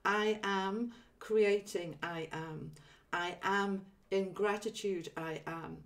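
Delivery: slow meditative affirmation; affirmation demo. Shown as a demonstration. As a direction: chant it like a mantra, very slowly. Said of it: "you'll hear that I repeated things".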